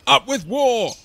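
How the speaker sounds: high, loud war chant; lusty storybook battle cry; shouting. A narrator's reading. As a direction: belt out a rallying slogan. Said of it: "they shouted".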